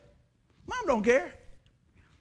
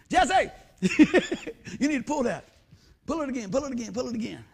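laughing urging; 2 semitones higher, 3 dB louder than usual. Retold or imitated. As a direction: urge him on through a laugh.

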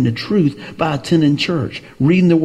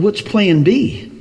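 retold question; 5 semitones higher, much slower than usual. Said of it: "And I said".

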